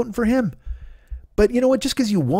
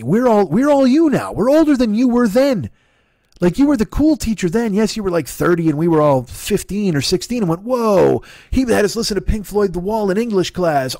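put-on raised, louder exasperated rant at an old teacher; a hammed-up scolding, pitched up; mock rant; 5 semitones higher, 3 dB louder than usual. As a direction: lecture him like a fed-up former student.

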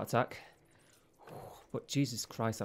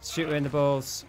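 fierce loud urging; 3 semitones higher, 6 dB louder than usual. Real, not acted. Urging himself on in combat.

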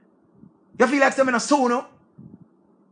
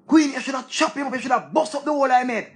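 higher pitched mocking egging voice; mock commenter egging on; 4 semitones higher, faster than usual. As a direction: egg her on like a nosy commenter. Imitating commenters urging Queenie.

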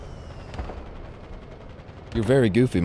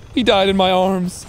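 mock tragic lament; 7 semitones higher than usual. Mock grief.

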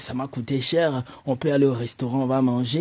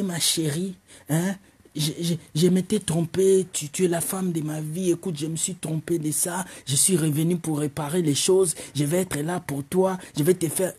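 smooth sweet talk. Acted. Ex sweet-talking his girl.

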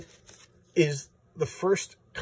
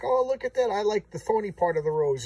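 higher, lightly voiced villain sister; playing Thorn's wistful taunt; mock dreamy Thorn; 8 semitones higher, 5 dB louder than usual. Comic reviewer voicing Thorn to viewers, high and mock dreamy.

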